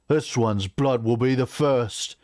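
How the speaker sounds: slow, angry vow; menacing orc threat. Acted. War chief marching at Clara with axe, threatening. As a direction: draw the threat out slowly.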